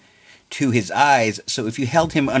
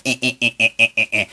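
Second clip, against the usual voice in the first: running sound effect; much faster than usual. Shown as a demonstration. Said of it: "I'm pumping my fingers".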